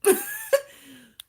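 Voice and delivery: loud high squealing laugh; high burst of laughter. Real, not acted. Owner laughing at her lizard's stare, loud squeal.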